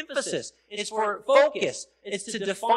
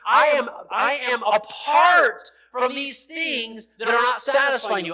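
voicing God; 3 semitones higher, 4 dB louder than usual. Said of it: "The holiness of God says".

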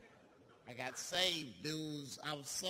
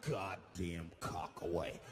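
disgusted yell; 4 semitones lower than usual. Retold or imitated. Passenger yelling at the flasher on the bus, disgusted shout.

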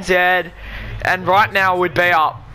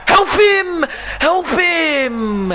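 higher, louder pleading yell; desperate shout; 10 semitones higher, 3 dB louder, much slower than usual. Real, not acted. Gamer begging his defenders to help, high shout.

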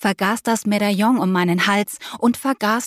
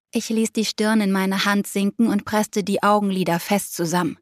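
ordinary delivery

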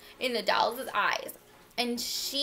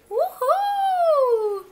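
high, loud whooping; drawn-out, exultant hooray; jubilant cheering; 7 dB louder, much slower than usual. A narrator's reading. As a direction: cheer at the top of the voice. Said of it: "cried the funny little clown".

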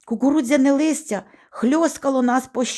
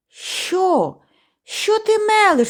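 very high, startled retort; приголомшене обурення; 11 semitones higher, 3 dB louder, slower than usual. A narrator's reading. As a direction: cry out in disbelief. Налякано заперечує слова друга. (високий приголомшений вигук)

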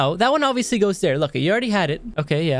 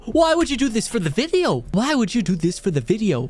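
squealing, exasperated protest; high-pitched outrage; 6 semitones higher than usual. Real, not acted. Reacting to an annoying clip, high-pitched outrage. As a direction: protest in a much higher voice.

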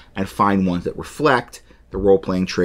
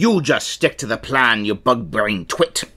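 pirate voice. Acted. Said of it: "I'm gonna do a pirate voice".

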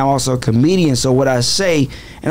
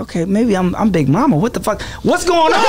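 retold mock panic, higher on the last question; mock bewilderment; 5 semitones higher than usual. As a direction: act out a comic identity crisis, rising to a high finish. Comic retelling of own bewilderment.

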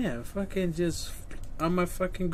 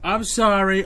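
louder, mock-polite I'm sorry; sarcastic fake apology; 6 dB louder than usual. Streamer mockingly apologising to the dying patient, sarcastic. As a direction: say sorry like you don't mean it at all.

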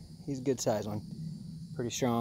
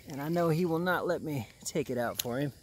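whispered aside; breathless hushed aside; 6 dB quieter than usual. Real, not acted. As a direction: whisper so the gator won't hear. Quiet aside near the gator.

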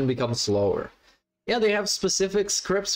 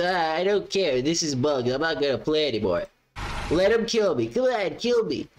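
whiny rage quitter. Retold or imitated. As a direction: whine like a sore loser giving up. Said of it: "Not this".

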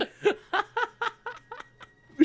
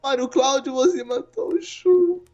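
fake crying; 5 semitones higher than usual. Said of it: "Ele tá chorando até agora".

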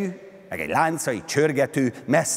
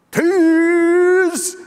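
joyful cry, far higher and louder; happy shout; 11 dB louder than usual. A narrator's reading. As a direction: yell it with delight. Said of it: "kiáltott boldogan Prométeusz".

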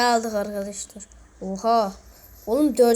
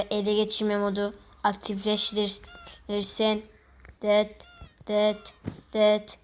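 bad toy robot impression. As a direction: stiff robot voice, beeping. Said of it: "robot taklidim çok kötü ya".

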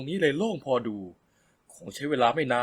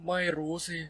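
softer, gentle and deflated; 4 semitones higher, 5 dB quieter than usual. Acted. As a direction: let the voice sink softly, a little let down. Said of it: "เสียงนุ่มอ่อนลงไปอีกครั้ง". (เสียงนุ่มอ่อนลง)

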